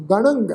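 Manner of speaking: ਗਣੰਗ with a nasal ending; nasal pronunciation. Shown as a demonstration. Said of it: "ਇਹਨਾਂ ਦਾ ਨਾਸਕੀ ਉਚਾਰਨ ਕਰਾਂਗੇ ਜੀ".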